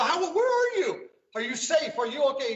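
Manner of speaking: high, anxious rush of questions; retold worry. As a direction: replay the panic of not knowing he was safe. Retold frantic phone call to friend.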